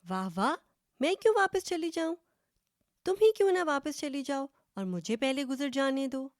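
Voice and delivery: high, rapid, outraged retort; scoffing back at the other goat; second goat refusing to give way, indignant. Acted.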